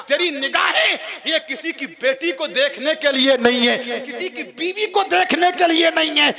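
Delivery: high, rising exhortation; full-force preaching. Real, not acted. Preacher admonishing listeners about their gaze, full-force preaching.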